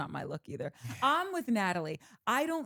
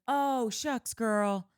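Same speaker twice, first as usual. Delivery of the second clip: mock Southern Brittany; 4 semitones higher, 4 dB louder, slower than usual. Mocking Brittany's careless apology.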